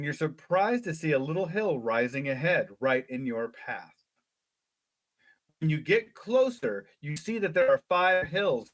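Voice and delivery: lively read-aloud storytelling; story narration. A narrator's reading. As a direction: read it like a children's adventure book. Reads gamebook story aloud.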